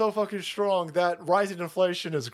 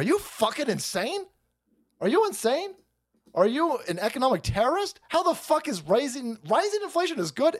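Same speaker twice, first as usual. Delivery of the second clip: mock outraged crowd; 6 semitones higher than usual. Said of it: "everybody went in there and said".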